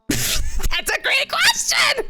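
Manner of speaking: slow, high, exaggerated host voice; mock cheerful host. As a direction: answer like a game-show host.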